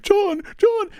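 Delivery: high, loud imitated cry for help; imitating a panicked call. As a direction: call the name twice, urgent and shrieked high. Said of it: "calling my name".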